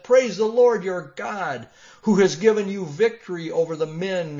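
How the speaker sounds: loud greeting. Acted. Messenger's greeting to king.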